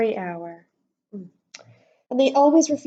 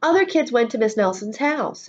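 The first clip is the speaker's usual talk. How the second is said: ordinary delivery, nothing marked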